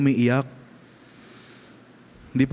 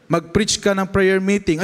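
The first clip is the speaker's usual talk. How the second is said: father's request; 7 semitones higher than usual. Retold or imitated. Father asks son to preach.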